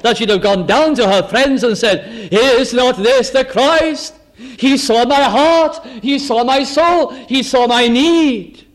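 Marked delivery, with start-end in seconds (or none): 2.3-8.6 rising, slow, marvelling; awed exclamation. Acted. Woman telling her friends about Jesus, awed and raised. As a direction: lift each line in wonder.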